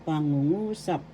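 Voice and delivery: pangungusap with the accent on the second NGU; stress on third syllable. Shown as a demonstration. Teacher modelling the word for sentence, pangungusap stressed on third syllable. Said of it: "The accent is in the third syllable".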